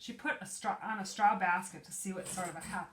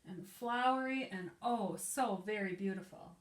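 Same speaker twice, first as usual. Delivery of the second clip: dreamy sigh; 3 dB louder than usual. Acted. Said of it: "she sighed".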